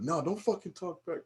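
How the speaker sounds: mom shutting down. Retold or imitated. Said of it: "And like".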